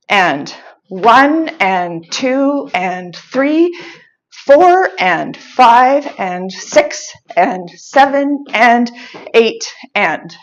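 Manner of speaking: brisker count, beats closer together. Shown as a demonstration. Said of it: "let's do it again a little bit faster".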